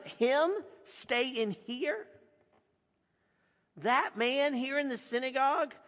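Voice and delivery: a worried crowd protesting; indignant crowd. Acted. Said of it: "exclaimed the crowd".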